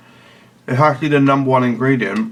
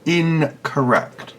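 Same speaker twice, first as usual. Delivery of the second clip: slow mock stern; 3 semitones higher, much slower than usual.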